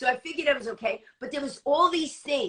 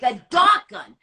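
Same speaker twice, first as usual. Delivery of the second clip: disbelieving echo; 3 semitones higher, 6 dB louder than usual. Retold or imitated. Echoes "dart gun" in disbelief.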